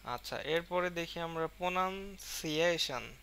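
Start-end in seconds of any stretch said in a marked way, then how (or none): 1.6-3.1 প্রনাউন্সিয়েশন with quick start, lengthened stressed সিয়ে. Shown as a demonstration. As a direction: rush প্রনাউন, linger and press on সিয়ে in প্রনাউন্সিয়েশন. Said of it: "সি এর ক্ষেত্রে একটু সময় নিচ্ছি". (প্রনাউন্সিয়েশন-এ সিয়ে টেনে জোর দিয়ে)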